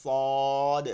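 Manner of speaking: সদ hit with a firm bounce at the end; struck letter. Shown as a demonstration. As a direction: give সদ a little knock. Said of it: "একটু বাড়ি দিব". (সদ একটু বাড়ি দিয়ে)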